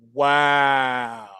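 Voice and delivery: low, flat stunned wow; dry deadpan wow. Real, not acted. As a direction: let it drop low in disbelief.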